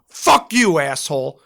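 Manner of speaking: high, loud shout of fuck you; yelling it at the gunny; retold shout. Shouting at the gunny who nearly hit him, loud and high. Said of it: "slapped his coffee out of his hand and went".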